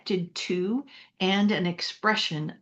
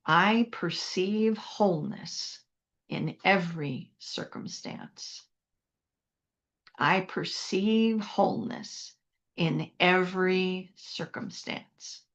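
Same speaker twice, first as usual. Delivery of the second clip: spoken affirmation. Shown as a demonstration. Leads congregation in a spoken affirmation.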